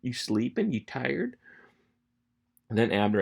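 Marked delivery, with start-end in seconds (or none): 0.0-1.4 higher-pitched taunt at no great volume; half-yelled, teasing call-out; mock yell. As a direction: needle a sleepy guard, pitch raised. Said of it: "And he's yelling".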